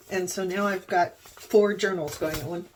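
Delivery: talking through hiccups; suppressing hiccups. Real, not acted. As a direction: hold back a hiccup mid-sentence. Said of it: "sorry, I have hiccups".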